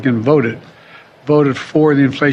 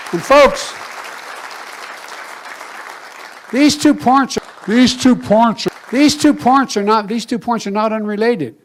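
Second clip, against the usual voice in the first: chipmunk-high repeated words; squeaky sped-up stutter; high pitched voice; 8 semitones higher than usual. Pretend. Pitched-up edited clip.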